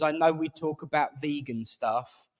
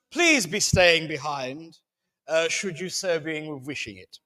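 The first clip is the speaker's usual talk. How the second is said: mock posh English accent. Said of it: "use my proper accent".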